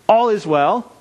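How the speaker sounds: high, loud burst of good news; eager announcement. Acted. Messenger hurrying to tell the king, eager and loud. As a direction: blurt it out like a runner arriving breathless with news.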